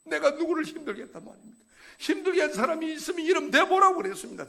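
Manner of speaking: a rising, loud retold protest; arguing with God. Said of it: "제가 막 따지듯이". (하나님께 따지듯 점점 높고 크게)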